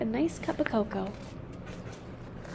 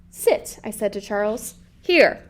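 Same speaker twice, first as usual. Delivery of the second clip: stern dog command; 2 semitones lower than usual. Acted. Mother at the park ordering her dog, firm commands.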